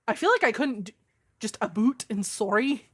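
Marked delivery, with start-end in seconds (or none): 1.6-2.9 light mock Canadian accent; "about" said as "aboot", lightly Canadian. Shown as a demonstration. Streamer trying the requested Canadian accent for viewers, mock Canadian. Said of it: "Need a Canadian accent?".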